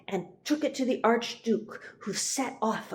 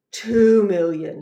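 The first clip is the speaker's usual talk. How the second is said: raising the offer; 9 dB louder than usual. Acted. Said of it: "he said".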